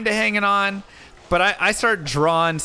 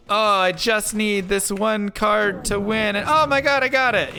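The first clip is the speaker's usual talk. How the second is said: rising, excited and higher; imagined player's excitement; 6 semitones higher than usual. Retold or imitated. Player imagines drawing the one card he needs, rising excitement. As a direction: gush as if the winning card just came. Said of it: "believe in the heart of the cards".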